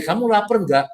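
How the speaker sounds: straight, matter-of-fact ask; just ask if they're hungry, no hidden meaning; a guy simply asking a friend; man's plain question. Retold or imitated. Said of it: "Kalau cowok bilang".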